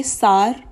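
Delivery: "सार" said as "saar" with a flat a; "सार" rhymes with car, one syllable; wrong sour. Shown as a demonstration. Teacher mimics a common wrong "सार". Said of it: "both are wrong".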